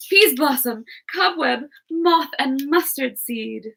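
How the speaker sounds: lightly regal queen calling her fairies; reading Titania. Acted. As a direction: summon the fairies with authority.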